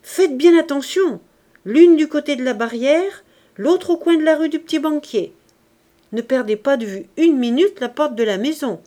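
high, loud urgent instructions; shouting after them. A narrator's reading. Father sends daughters to keep watch, shouting after them. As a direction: call orders down the corridor. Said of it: "la voix de Jondrette qui leur criait".

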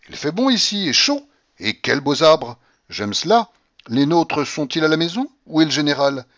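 put-on loud, high, imperious old lady; old grandmother shouting. A narrator's reading. Grandmother shouting at the stunned tutor, imperious and loud. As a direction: bark at him like a domineering grandmother.

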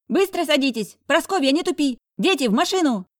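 put-on high, loud rattling old voice; rattly old woman. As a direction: shout like a rattly old lady. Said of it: "чуть дребезжащий голос".

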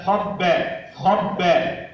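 خبأ with dark kha, thin "ba"; heavy خ, light ب. Shown as a demonstration. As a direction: keep only the خ of خبأ thick. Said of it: "خاء مفخمة والباء مرقق". (خبأ بتفخيم الخاء وترقيق الباء)

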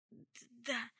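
stammered, forced-out yes; reluctant admission. A narrator's reading. Jessamine admitting it to Charlotte, stammering reluctantly. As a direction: squeeze the word out against your will. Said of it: "словно против воли выдавила из себя девушка".

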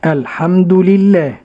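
الرحمن الرحيم recited slowly and carefully; tajweed repetition. Shown as a demonstration. Host echoing the sheikh's recitation slowly. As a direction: repeat after the sheikh slowly. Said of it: "host repeats after sheikh".

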